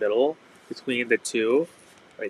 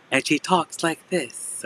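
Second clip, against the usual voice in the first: lightly imitating a robotic shopping lady; a half-hearted robot voice, soon given up; mild mock robot voice, trailing into embarrassment; robot-like TikTok voice; 4 semitones higher, 3 dB quieter, slower than usual. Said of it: "sounds like a robot slash".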